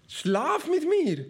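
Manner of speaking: high, slow hammed-up temptress; seductive demand. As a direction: draw it out sweetly and high. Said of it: "forderte sie ihn auf".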